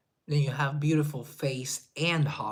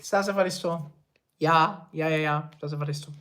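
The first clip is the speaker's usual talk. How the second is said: louder hammed-up tourist parroting phrases; mock Greek tourist; 2 semitones higher, 6 dB louder than usual. Joking about visiting Greece, hammed-up tourist voice. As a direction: play the eager tourist spouting all they know. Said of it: "I would like".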